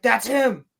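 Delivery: hammed-up eager realisation; mock excited discovery. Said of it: "Yord's like".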